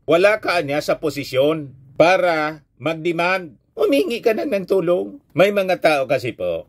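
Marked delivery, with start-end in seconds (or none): 0.1-5.2 quoting Trump. Retold or imitated. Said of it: "Kaya sabi ni Trump".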